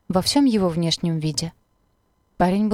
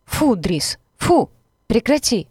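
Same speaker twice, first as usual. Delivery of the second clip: scolding the dog; 5 semitones higher, 4 dB louder, slower than usual. A narrator's reading. Owner scolds her dog loudly.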